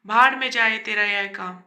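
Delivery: fed-up son yelling at his mother; shouting. Acted. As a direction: son snaps at his mother, loud and angry. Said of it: "तुरंत चिल्लाते हुए कहा".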